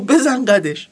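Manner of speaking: lightly acted nervous retort; acted fearfulness. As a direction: play a rattled driver admitting it. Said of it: "با همون حالت ترسولتش گفت".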